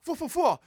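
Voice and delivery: high-pitched striking "fua" bursts; imitated stabbing noise. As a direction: mimic a stinging tail. Imitates scorpion tail striking.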